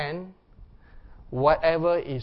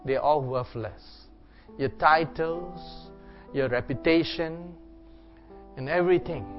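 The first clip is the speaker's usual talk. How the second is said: reflective preaching. Acted. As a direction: preach gently into a time of prayer. Meditative preaching over worship music.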